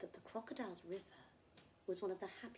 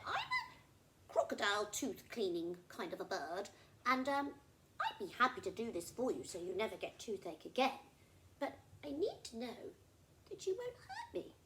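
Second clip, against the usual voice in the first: friendly little bird; 3 semitones higher, 6 dB louder than usual. Acted. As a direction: make a cautious, friendly offer. Bird offers crocodile a deal.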